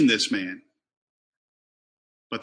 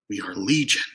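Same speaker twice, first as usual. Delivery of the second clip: sinister demon voice; 6 semitones lower than usual. Shown as a demonstration. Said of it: "I should have read that in my sinister voice".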